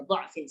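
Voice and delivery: dha'fin with an open a after heavy d; fathah only. Shown as a demonstration. Teacher gives the thayyibah reading, dha'fin with a vowel. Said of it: "hanya fathah saja".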